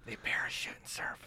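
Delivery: soft conspiratorial whisper. Pretend. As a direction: breathe it like a secret. Joke whisper about sequel.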